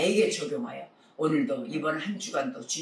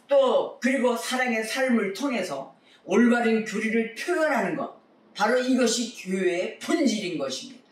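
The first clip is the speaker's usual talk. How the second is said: higher, sustained preacher's proclamation; emphatic preaching; 5 semitones higher, 4 dB louder than usual. Real, not acted. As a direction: drive each point home from the pulpit. Preacher drives home the doctrine. (힘주어 선포하는 설교조)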